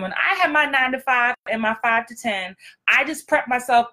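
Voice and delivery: ordinary delivery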